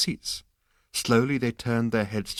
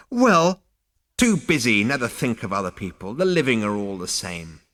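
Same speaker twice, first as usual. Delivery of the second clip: put-on scolding old ghost; 4 dB louder than usual. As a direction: grumble like a disapproving elder.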